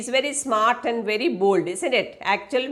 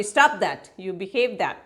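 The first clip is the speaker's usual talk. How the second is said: sharp; 3 semitones lower than usual. Acted. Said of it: "Missus Pearson sharply".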